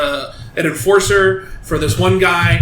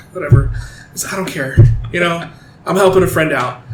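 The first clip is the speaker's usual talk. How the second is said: sighing, couldn't-care-less retelling; indifferent shrug. Retold or imitated. Hitman helping a friend out, indifferent. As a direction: shrug it off with a sigh. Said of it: "completely indifferent to the whole thing".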